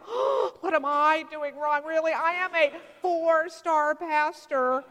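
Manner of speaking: mock whine. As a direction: whine about your Yelp rating. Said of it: "And I go".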